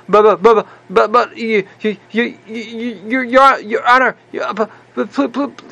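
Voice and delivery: a hammed-up desperate stammer; panicked stuttering. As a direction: stammer out every but like a man about to lose everything. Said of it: "he literally starts, starts stuttering".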